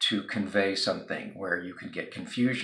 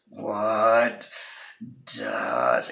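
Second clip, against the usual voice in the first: mock frustrated shout; 4 dB louder than usual.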